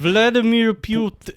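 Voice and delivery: put-on Russian. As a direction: try a name in a Russian accent. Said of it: "Let me see if I can get into it".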